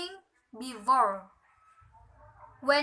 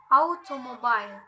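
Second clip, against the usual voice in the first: "automobile" with main stress on AU, secondary on BILE; "automobile", middle syllables unstressed, last lightly stressed; stress on first syllable. Shown as a demonstration. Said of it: "primary, unstressed, unstressed, secondary".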